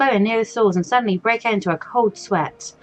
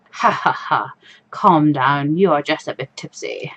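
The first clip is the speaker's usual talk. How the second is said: low mocking voice; 6 semitones lower than usual. Low voice of inner other self.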